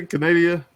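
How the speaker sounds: "Canada" said as kuh-NAY-dee-uh; Lou's mispronunciation. Retold or imitated. Host recalling how a friend says it, "Canada" turned into kuh-NAY-dee-uh. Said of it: "As Lou would say".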